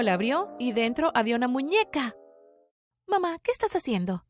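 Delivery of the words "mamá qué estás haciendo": mild mock yell. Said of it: "grité".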